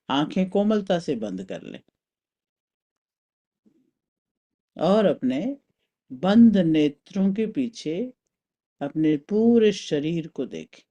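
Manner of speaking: calm, spaced-out meditation guidance; guided meditation. Acted. Teacher leading a mental journey through the body, guided meditation. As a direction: guide them inward with long pauses.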